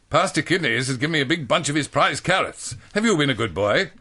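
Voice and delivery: lightly voiced prim girl; Janet. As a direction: ask like a prim big sister.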